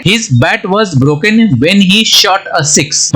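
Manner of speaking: very slow, careful dictation; teacher dictating an English example sentence. Shown as a demonstration. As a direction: read it word by word for learners. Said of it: "अब इसको sentence में use करते हैं".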